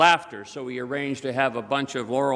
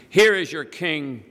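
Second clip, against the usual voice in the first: loud, slow, raised announcement; higher-pitched, drawn-out proclamation; proclaiming; 4 semitones higher, 5 dB louder, slower than usual. A narrator's reading. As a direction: present him to the whole crowd. Pilate presenting Jesus to the crowd.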